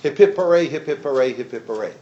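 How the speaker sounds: imitated crowd cheer, loud then dropping away; mock yelled cheer. Lecturer imitating a reporter at the airport, mildly yelled cheer. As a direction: lead a half-hearted hip-hip-hooray that fades. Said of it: "one of the reporters yells out".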